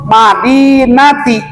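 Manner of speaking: slow, syllable-by-syllable recitation with long held vowels; measured Quran recitation. Shown as a demonstration. Teacher models the verse for students, slow drawn-out recitation. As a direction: recite it slowly for learners.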